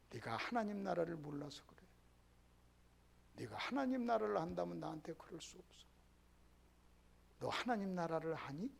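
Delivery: voiced as Jesus, quietly probing his disciple; hushed rebuke. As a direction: lean in and ask Peter gently but pointedly. Jesus quietly questions Peter.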